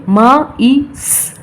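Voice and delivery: मा ई स as three separate sounds; sounded out. Shown as a demonstration. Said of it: "short vowel is coming". (ध्वनियाँ तोड़कर उच्चारण)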